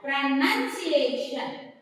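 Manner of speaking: pronunciation said slowly, pro-nun-ci-A-tion; slow syllable by syllable pronunciation; careful pronunciation. Shown as a demonstration. Teacher models the correct word slowly, careful pronunciation. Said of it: "pronounce this word as".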